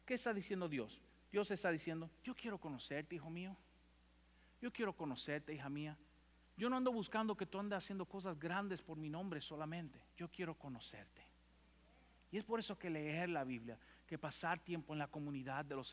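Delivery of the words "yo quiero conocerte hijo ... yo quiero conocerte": soft, gentle plea; God softly calling his son and daughter, tender. Acted. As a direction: softly call a beloved child. Pastor voices God's tender call.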